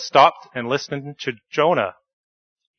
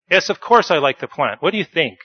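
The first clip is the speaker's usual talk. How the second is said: grumpy; 4 semitones higher, 3 dB louder than usual. Acted. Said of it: "grumped Jonah".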